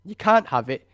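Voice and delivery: lightly voiced smug Brit refusing; a hint of a prim British official; smug British reply. Comedian playing a Brit keeping loot, mock smug. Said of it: "his reply is so British".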